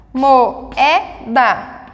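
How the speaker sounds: Moeda with O and E in separate syllables; syllables split. Shown as a demonstration. Teacher shows the hiatus to students, syllables separated. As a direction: say Moeda slowly, mo-e-da. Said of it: "em sílabas separadas".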